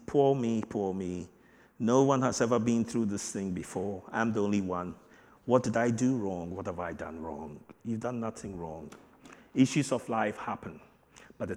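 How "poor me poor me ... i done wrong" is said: mock self-pity. Preacher mocking the self-pitying believer's lament. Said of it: "having that pity party".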